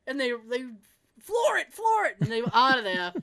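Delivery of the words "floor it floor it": higher, louder urgent call. Retold or imitated. Teens fleeing the house, urgent call. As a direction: hurry them, floor it. Urging driver to flee.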